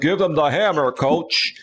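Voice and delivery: lightly imitated Southern twang; Southern accent. Host repeating a former panel guest's catchphrase, Southern accent. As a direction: mimic a Southern guy's catchphrase. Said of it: "he had that accent".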